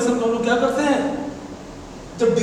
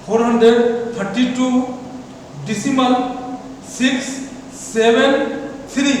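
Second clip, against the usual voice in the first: पाइंट के बाद सिक्स, सेवन, थ्री each said separately with a pause between; digit by digit. Shown as a demonstration. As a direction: read decimal, then every digit apart. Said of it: "क्या प्रोनाउंसिएट करेंगे इसको?".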